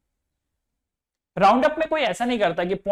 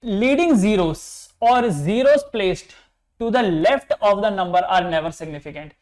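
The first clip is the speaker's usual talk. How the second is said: slow dictation; much slower than usual. Shown as a demonstration. Teacher dictating a rule to students, very slow and even. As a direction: read the rule out very slowly, word by word. Reads rule aloud for notes.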